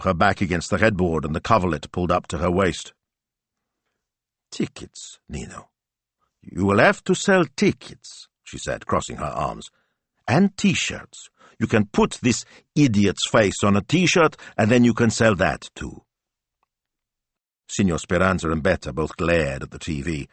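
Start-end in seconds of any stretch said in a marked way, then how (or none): 4.5-8.3 wife spelling out her plan, pitch leaping high; insistent wife. Acted. Wife tells Nino to sell tickets, insistent. 10.3-16.0 higher-pitched wife pressing her plan; insistent wife. Acted. Wife adds T-shirts to her plan, insistent.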